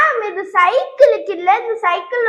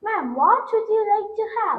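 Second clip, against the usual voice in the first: softer, very slow waiter's question; slow waiter English; 7 dB quieter, much slower than usual. Acted. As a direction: repeat the order slowly for her. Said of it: "இன்னொரு time சொல்லு".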